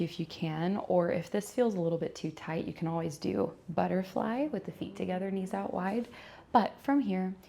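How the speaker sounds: unhurried yoga teacher cues with long pauses; measured, calm yoga-class delivery; guided yoga instruction. Acted. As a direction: guide them gently through each stretch, pausing between cues. Leads a gentle yoga practice.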